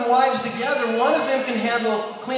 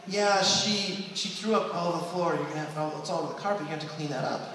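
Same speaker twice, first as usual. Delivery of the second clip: husband; 5 semitones lower, 8 dB quieter than usual. Retold or imitated. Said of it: "husband's gonna go to wife and say".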